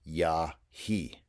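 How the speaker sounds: Ya he said yah-heh, slow and clear; Lakota ya he. Shown as a demonstration. Teacher modelling you arrive here in Lakota, clearly. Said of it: "you arrive here".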